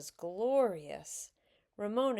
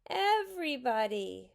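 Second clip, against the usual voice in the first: high, falling whine; mock-tearful complaint, pitched up; 6 semitones higher, 4 dB louder than usual. A narrator's reading. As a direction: wail it like a wronged child. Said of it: "said Susan tearfully".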